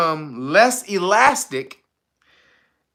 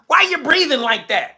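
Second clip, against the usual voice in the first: higher mock woman, irritated; mock woman complaining; 8 semitones higher than usual. Angry girl questioning a guy, mock high voice.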